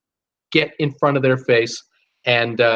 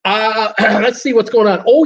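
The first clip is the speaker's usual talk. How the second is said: higher-pitched cranky grumbling; real fired-up crankiness, pitched up; 7 semitones higher than usual. Real, not acted. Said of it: "a cranky old man".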